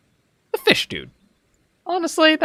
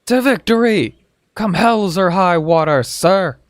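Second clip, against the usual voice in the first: shouted creed; 5 semitones higher than usual. Pretend. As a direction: belt it out like a recruit. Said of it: "say it like you mean it".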